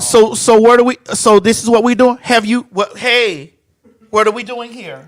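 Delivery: pointed, questioning tone of displeasure; warning tone. Shown as a demonstration. Star checking the crew on what they're doing, pointed warning tone. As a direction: let the tone signal trouble to the crew. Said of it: "It be a tone in my voice".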